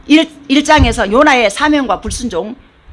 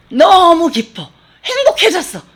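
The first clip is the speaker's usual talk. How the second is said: overjoyed; 6 semitones higher, 4 dB louder, slower than usual. Retold or imitated. Jonah overjoyed under the vine.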